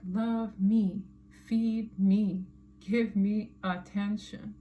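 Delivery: lightly voiced needy cat, word by word; mock screaming cat. Tarot reader speaks for the cat on the card, mildly mock-screaming demand. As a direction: plead like a demanding cat, drawing words out. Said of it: "the cat is screaming".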